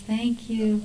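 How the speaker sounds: soft, tender retold thanks; grateful mother. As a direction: imitate a new mother's quiet gratitude. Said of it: "and she goes".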